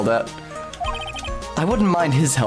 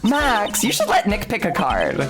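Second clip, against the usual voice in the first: put-on girl voice; 4 semitones higher than usual. Voicing Maya.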